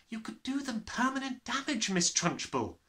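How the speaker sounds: high alarmed protest; cried out. Acted. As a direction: plead in alarm for the boy. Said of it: "Miss Honey cried out".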